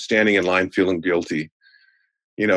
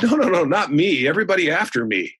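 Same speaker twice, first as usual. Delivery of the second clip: mock protest; 9 semitones higher than usual. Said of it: "And I said".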